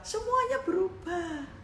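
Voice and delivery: high, soft, drawn-out words; hushed awe. Real, not acted. Preacher closing a testimony of change, hushed and high. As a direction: let it float up softly and slowly.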